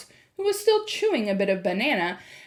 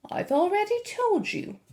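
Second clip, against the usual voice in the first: insistent grandmother; 12 semitones higher than usual. A narrator's reading. Grandmother patiently insists to parents.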